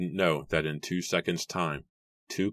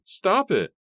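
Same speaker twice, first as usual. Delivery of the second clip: high, loud frantic order; sharp desperate outburst; screaming; 6 dB louder than usual. A narrator's reading. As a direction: scream for it to end. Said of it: "Constance screamed".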